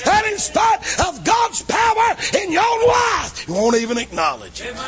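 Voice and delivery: full-force preaching. Acted. Preacher thundering to the congregation, full force. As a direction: preach it out to the whole church.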